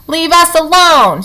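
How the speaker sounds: high, slow frightened squeak. A narrator's reading. Weasel crouching in the grass squeaking at the robot. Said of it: "squeaked Dart".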